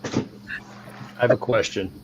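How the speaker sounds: soft unvoiced whisper; slow whispered question. Real, not acted. Whispered question during ASMR bit.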